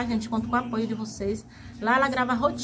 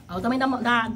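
talking through hot food; words round a hot bite; mouth full of hot food; faster than usual. Real, not acted. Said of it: "ai, tá quente".

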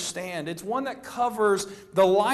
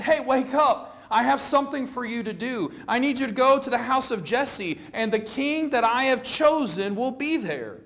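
God speaking; 6 semitones higher, 3 dB louder than usual. Retold or imitated. Preacher voices God rousing Samuel.

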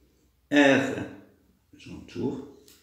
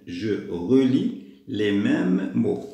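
very slow, drawn-out words; slow instruction reading; 4 dB louder, much slower than usual. Shown as a demonstration. Teacher reading the task to pupils, slow and deliberate. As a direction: stretch "relis" and "mêmes", word by word.

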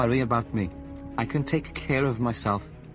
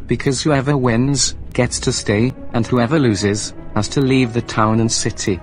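much louder, threatening rant; angry shouting; 9 dB louder than usual. Acted. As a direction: shout him down and challenge him to a fight. Acted quarrel, threats and challenge.

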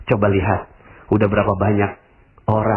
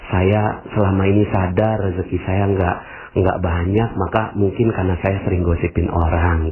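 humble reply; 4 semitones lower than usual. Acted. Humble reply to gossiper acted.

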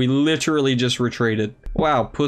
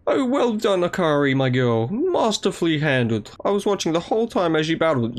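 higher, beaming proud elder; proud mentor voice; 3 semitones higher than usual. Acted. Elder praising Akari after the battle, proudly. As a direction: praise the girl like a proud teacher. Voicing the game character's praise.

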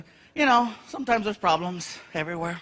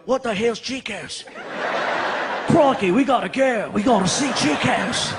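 put-on Australian accent. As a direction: play an eager Aussie. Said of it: "people in Australia going".

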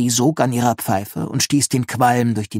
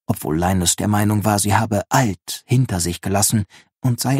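measured audiobook narrator; story narration. A narrator's reading. Narrator setting up Linus's encounter with his neighbour, storytelling tone. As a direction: read it out as a storyteller.

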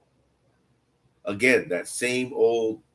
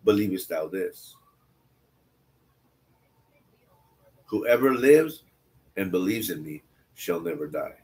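scripture reading. Acted. Reads scripture aloud.

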